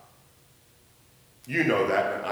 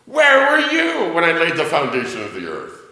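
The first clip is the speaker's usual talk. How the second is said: booming louder divine challenge; God rebuking Job, louder and commanding; 2 semitones higher, 6 dB louder than usual. Acted. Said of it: "God says to Job".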